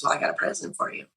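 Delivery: quick, soft whispered quote; hushed husband. Retold or imitated. Husband teasing her with a surprise gift, hushed and quick. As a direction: rush it out softly, like a secret.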